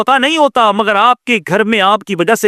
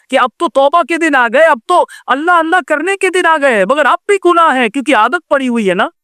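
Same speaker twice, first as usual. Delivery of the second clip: raised-pitch pleading exhortation; impassioned preaching; 7 semitones higher than usual. Real, not acted. Preacher urges the elderly to repent, impassioned preaching. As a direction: press the point home, pitched high.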